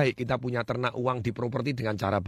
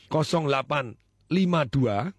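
slow dictation. Shown as a demonstration. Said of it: "Saya ulangi pelan-lahan".

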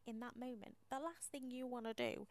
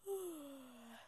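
yawn; 3 semitones higher than usual. Real, not acted. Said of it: "Sorry, quick yawn".

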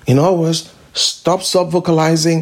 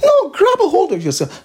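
urgent exhortation; 4 semitones higher than usual. Real, not acted. Preacher exhorting congregation.

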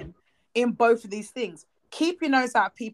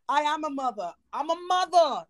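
higher-pitched indignant protest; indignant insistence; 5 semitones higher than usual. Real, not acted. Objecting to being called mommy, indignant protest. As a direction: insist on it, pitch climbing on the repeat.

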